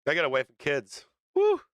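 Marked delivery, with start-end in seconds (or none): 1.4-1.6 a real, loud whoop of relief; joyful whoop. Real, not acted. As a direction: let the relief burst out in a shout. Cheering the good cancer news.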